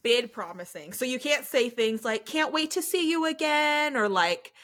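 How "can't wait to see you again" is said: higher, drawn-out sweetness; slow, high-pitched chirpy goodbye; mock gushing farewell. Shown as a demonstration. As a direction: stretch it out like an eager recruiter. Acts a forbidden recruiter farewell.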